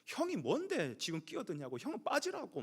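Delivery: mock a sibling snapping at his brother; retold angry yelling. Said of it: "형을 향해서 막 소리를 지르는". (동생이 대드는 듯 높은 소리로)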